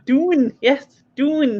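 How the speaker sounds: "doon" with a long oo; dialect doon. Shown as a demonstration. Approving the learner's attempt, "doon" with a long oo. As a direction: confirm "doon" with a clear oo vowel. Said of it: "no, ganning doon".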